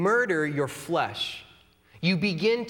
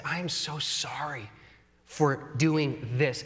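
genuine apology; 3 semitones lower, slower than usual. Shown as a demonstration.

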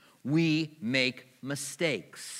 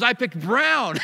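much higher, louder retold protest; angry customer; 9 semitones higher, 8 dB louder, slower than usual. Customer protesting to the upholsterer, high and loud. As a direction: insist on the brown he chose. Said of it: "He goes".

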